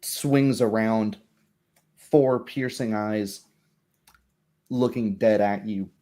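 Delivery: ordinary delivery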